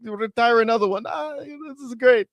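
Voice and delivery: high-pitched mock wrestler promo; hammed-up high, gleeful gloating; Gunther. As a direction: gush in a high put-on voice, pitch climbing as it goes. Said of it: "Gunther did a, a little video".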